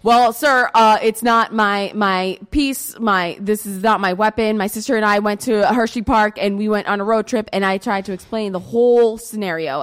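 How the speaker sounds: lightly acted military formality; a hint of crisp soldier reporting to a superior. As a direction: answer the officer in an imitated military voice. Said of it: "answering in my best military voice".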